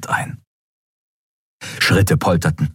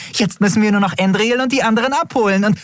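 very high and fast; excited babble; faster than usual. A narrator's reading. Nelen babbling with excitement, fast. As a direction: rush it out.

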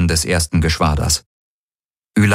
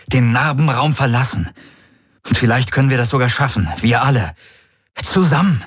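hohe, drängende Stimme eines verzweifelten Mannes; Garlin, flehend; 7 semitones higher than usual. A narrator's reading. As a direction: fleh sie an, hastig und atemlos. (Garlin fleht Ylana an, den Krieg zu beenden)

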